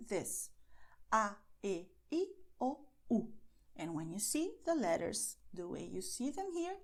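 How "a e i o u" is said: A, E, I, O, U as pure Spanish vowels, one at a time. Shown as a demonstration. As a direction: separate "A", "E", "I", "O", "U", each an unglided Spanish sound. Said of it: "the sounds for the vowels in Spanish".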